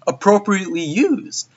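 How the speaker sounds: hyped, slowing on the last words; delighted fan reaction; excited. Retold or imitated. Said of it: "and I was just like".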